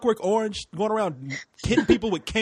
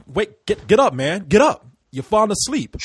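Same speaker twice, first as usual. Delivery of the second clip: louder, urging him to get up; urgent wake-up call; 3 semitones higher, 6 dB louder than usual. Retold or imitated. Friend rousing a sleepy drinker, louder urging. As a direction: shake a dozing friend awake with your voice. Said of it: "all I remember is like".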